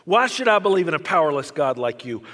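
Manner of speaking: boy shouting his hatred at a powerless God, retold loudly. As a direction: hurl the words up at God, hammed-up fury. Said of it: "I shouted".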